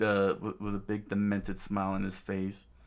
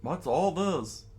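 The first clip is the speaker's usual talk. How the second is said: screamed question; 8 semitones higher than usual. A narrator's reading. Man finding injured boys on the floor, shocked. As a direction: swoop up in alarm. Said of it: "he screamed out".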